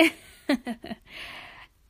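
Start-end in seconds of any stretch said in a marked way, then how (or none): 0.0-0.1 high and loud, proud "hippopotorocket"; proud hippo. Acted. Sheila thanking friends, proudly loud and high. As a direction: show off the new rocket with glee.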